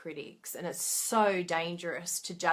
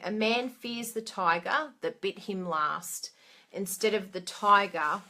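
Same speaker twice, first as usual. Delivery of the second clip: quoting a saying. Shown as a demonstration. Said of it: "there's a saying".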